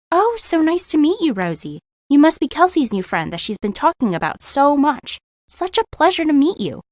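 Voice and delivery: high, sugary greeting; sweet mom voice. Acted. Mom greets daughter's friend.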